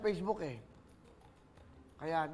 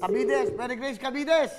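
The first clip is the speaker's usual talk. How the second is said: calling out a name; 2 semitones higher, 4 dB louder than usual. Acted. Host calls out the winner.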